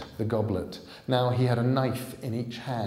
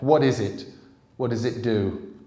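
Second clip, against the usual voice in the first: urgent, louder, scared questions; frightened question; 8 dB louder than usual. Acted. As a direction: ask in rising alarm. Jack alarmed by the Sleer.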